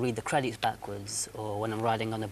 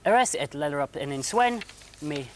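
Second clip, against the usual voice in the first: backwards talking; 2 semitones higher, 5 dB louder than usual. Acted. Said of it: "Zarb backwards talking".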